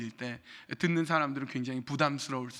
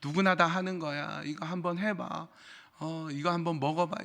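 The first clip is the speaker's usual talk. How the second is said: a mild seductive tempter's voice; sweet tempting.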